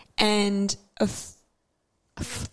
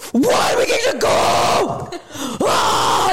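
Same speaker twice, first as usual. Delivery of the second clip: mock team celebration; 7 semitones higher, 3 dB louder, slower than usual. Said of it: "Celebrate it like that bad team".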